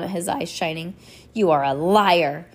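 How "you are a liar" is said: hissed. A narrator's reading. Count accusing the orphan of lying, hissing. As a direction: spit it out with contained menace. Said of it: "he hissed at Violet".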